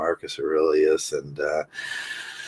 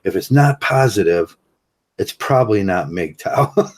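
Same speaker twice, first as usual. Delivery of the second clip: laughing; 2 semitones higher than usual. Shown as a demonstration. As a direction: repeat the motto, breaking into a laugh. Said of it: "I think I just made that up".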